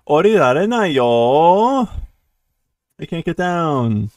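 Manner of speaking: high, loud mock wail; wailing crybaby, easing a little; crying. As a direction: whine it tearfully, stretching the last syllable. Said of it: "So he's still crying".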